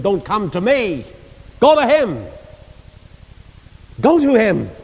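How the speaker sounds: a hint of Spurgeon pleading from the pulpit; quoting Spurgeon. Preacher quoting Spurgeon sending people to God, pleading. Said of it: "said Spurgeon".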